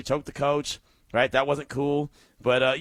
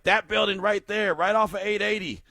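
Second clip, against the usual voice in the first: excited pointing out; 6 semitones higher than usual. Retold or imitated. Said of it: "I was like".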